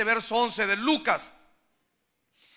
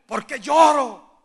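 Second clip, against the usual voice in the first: anguished cry; 4 semitones higher, 4 dB louder, slower than usual. Retold or imitated. Hitman asking why he cries.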